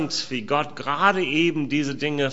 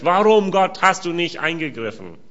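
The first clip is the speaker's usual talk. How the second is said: lament to God; 4 semitones higher than usual. Acted. Preacher voicing a lament to God.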